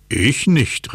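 gleeful, high-swooping denial; mock-triumphant tease; laughing call. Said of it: "rief Lotto lachend".

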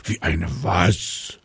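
lightly voiced baffled papa dragon; mildly baffled, drawn-out question; puzzled question. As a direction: ask slowly, a touch puzzled. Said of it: "fragt Papa Drache verdutzt".

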